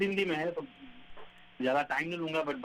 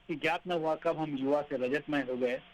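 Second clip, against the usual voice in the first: poem recitation. Acted.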